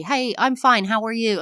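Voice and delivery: lightly chirpy greeting; cheery greeting. Retold or imitated. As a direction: toss it off like a breezy hello. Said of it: "for you to say".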